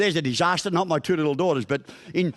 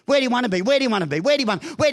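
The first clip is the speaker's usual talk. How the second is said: higher, mock nagging repetition; insistent questioning; 5 semitones higher, much faster than usual. Counsellor pressing her patient for an answer, mildly insistent. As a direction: lightly mimic someone pressing the same question repeatedly.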